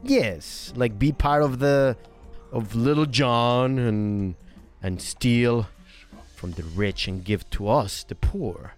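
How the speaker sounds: put-on halting Norwegian-accented English. Newcomer describing the merry men, halting Norwegian accent. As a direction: piece the phrases together in a Norwegian accent. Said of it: "my Norwegian accent".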